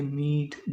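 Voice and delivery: "मीट" with a lengthened ee; long ई sound. Shown as a demonstration. Teacher listing examples, long ई in "मीट". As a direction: hold the vowel in "मीट". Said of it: "ये तो lengthy है".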